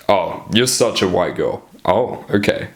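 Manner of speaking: low-key playful flirt. Shown as a demonstration. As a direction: tease with a relaxed downward inflection. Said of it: "what the flirting sort of tonality".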